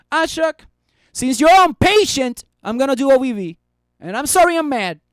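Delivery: mock anger. Streamer pretending to scold impatient viewer Ashok, mock-mad. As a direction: put on a fake angry telling-off. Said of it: "trying to make it as if as I was mad".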